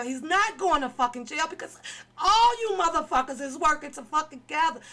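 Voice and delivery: crying rage. Real, not acted. Shouting through tears at those he accuses of covering for him. Furious rant at the group.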